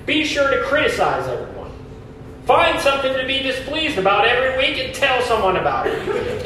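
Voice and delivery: mock advice, dripping irony; sarcastic. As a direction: list them like tongue-in-cheek tips. Sarcastic list of church-killing habits.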